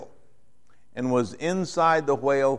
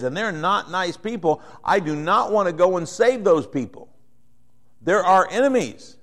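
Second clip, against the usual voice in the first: higher, heated voice of a resentful Jonah; indignant Jonah; 4 semitones higher than usual. Retold or imitated. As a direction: protest like a man who won't go. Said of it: "And he goes".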